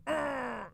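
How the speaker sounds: frustrated groan. Retold or imitated. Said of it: "it was just like".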